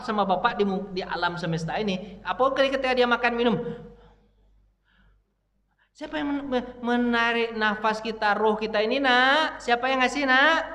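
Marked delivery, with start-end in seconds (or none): 5.9-10.6 demonstrating a parent's teaching question; father quizzing child. Shown as a demonstration. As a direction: ask a child, building with each phrase. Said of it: "Bisa nggak Bapak ngajarin begitu".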